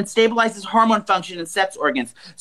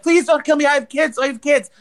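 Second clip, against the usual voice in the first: mock panicked plea, higher; pleading woman; 6 semitones higher than usual. Woman on the floor begging the robber, mock fear. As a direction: beg for your life, hammed-up. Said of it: "and she's like".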